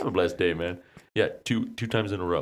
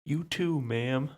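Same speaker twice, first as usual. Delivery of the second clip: higher, overly polite reply; polite phone voice; 9 semitones higher, 4 dB quieter, much slower than usual. Retold or imitated. Replying to the caller with mock politeness. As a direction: answer the stranger sweetly. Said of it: "I'm like".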